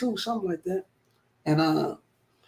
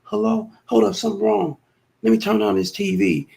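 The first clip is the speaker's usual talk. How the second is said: mock girlfriend on the phone; 5 semitones higher than usual. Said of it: "She get back on the phone".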